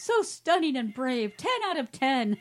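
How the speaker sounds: exaggerated, emphatic acclaim; mock gushing praise. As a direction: declare it like an overawed reviewer. Reading gushing mock-review comment aloud.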